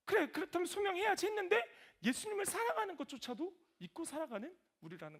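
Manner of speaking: high, loud, urgent sermon delivery; preaching at full force. Real, not acted. (목소리를 높여 열정적으로 설교하는 말투)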